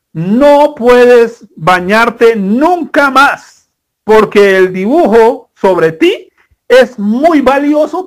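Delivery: stern parents. Retold or imitated. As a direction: lay down the rule like strict parents. Parents voiced in story.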